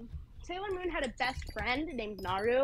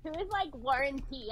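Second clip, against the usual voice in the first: playing dumb; 2 semitones higher than usual. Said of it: "I'm pretending to be dumb".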